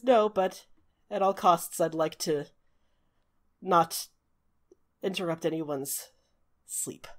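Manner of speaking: halting, sinking to a hush; mild sadness, pausing between words; trying to compose himself. Acted. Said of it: "really obvious that he's been crying".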